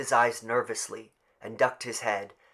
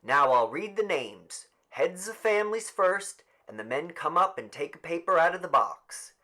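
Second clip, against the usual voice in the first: higher, louder announcement voice; raised official announcement; addressing the crowd; 7 semitones higher, 6 dB louder than usual. Acted. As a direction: address the whole village formally.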